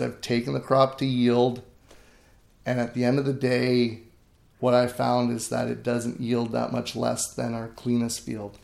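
measured, mild polite rebuttal, retold; polite reply. Farmer retelling his answer to his critical uncle, politely. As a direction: answer softly with a polite smile, as if quoting yourself. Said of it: "smiled back politely".

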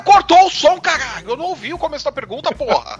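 high, exasperated cursing; angry outburst. Real, not acted. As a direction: vent that the sound cut out. Angry outburst at being cut.

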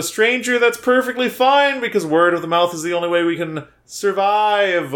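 a hint of a flight attendant's announcement; lightly voiced cabin safety speech. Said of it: "a flight attendant doing the safety speech".

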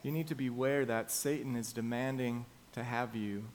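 a gentle, solemn call; earnest plea. Acted. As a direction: plead with them quietly.

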